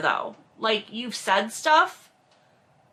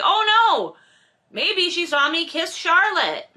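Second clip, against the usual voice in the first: mock sudden realization; 7 semitones higher than usual. Host mocks Maxim realizing his mistake, in a startled, high voice. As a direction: gasp of realization, hammed up.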